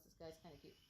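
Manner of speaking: soft murmured aside; hushed thought. Retold or imitated. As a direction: say it under your breath. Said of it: "first thought that popped in my head".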